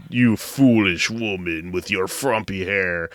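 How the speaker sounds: slow, lightly voiced macho taunt; a hint of a macho villain; mock macho Putin scorning the woman; macho sneer. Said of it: "very macho".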